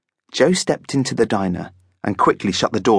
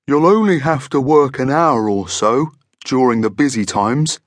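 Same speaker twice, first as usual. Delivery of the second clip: chatty, friendly monster voice; 4 semitones higher, 3 dB louder than usual. A narrator's reading. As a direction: chat away as a genial monster boss. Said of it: "he continued chattily".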